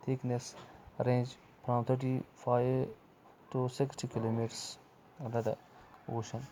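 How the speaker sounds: slow, drawn-out reading of the English textbook line. Acted. Teacher reading the textbook to young pupils, slow and deliberate. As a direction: read it out word by word for the class.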